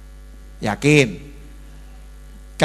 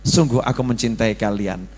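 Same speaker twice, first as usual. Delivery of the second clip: mock tender daughter; 5 semitones lower, 3 dB quieter than usual. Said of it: "katakan kepada orang tuamu".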